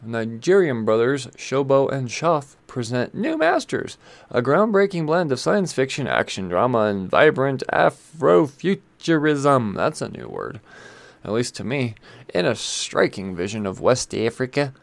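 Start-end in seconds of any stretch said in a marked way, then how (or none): 0.0-9.7 punchy, higher-pitched blurb read; announcer read. Acted. Comic shop host reading out the publisher's blurb, announcer read. 12.3-14.7 put-on light South African accent; attempted South African accent. Host reading a West Africa blurb in a mistaken South African accent. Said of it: "Sorry, that's South African accent".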